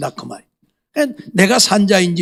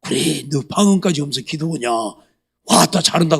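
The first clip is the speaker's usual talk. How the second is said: sarcastic God voice; 4 semitones lower than usual. Pretend. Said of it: "하나님 뭐라 할까요?".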